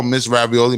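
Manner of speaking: "Ravioli" copied with a lilting, questioning rise; imitated pronunciation. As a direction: echo her odd way of saying "Ravioli". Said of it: "the way she says your name".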